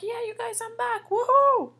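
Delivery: high, gleeful boast ending in a loud whoop; excited cheering. Acted. Julian celebrates being back with the kids, excited cheering. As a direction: crow to the whole group.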